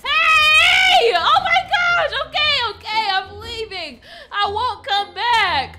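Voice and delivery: high loud frantic cries; panicked yelling. Acted. Shot at by the owner, fleeing in panic. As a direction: scramble to flee screaming.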